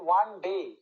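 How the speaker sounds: ডে landed firmly with the jaw dropping; stress on ডে. Shown as a demonstration. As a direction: drop the jaw on ডে after one. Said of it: "ডে বলার সময় মুখের টোয়ালটা নিচে নামছে".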